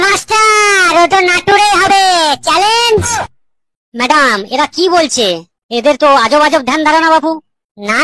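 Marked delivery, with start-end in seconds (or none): 0.0-3.0 defiant shout. Acted. Students defiantly challenging new teacher.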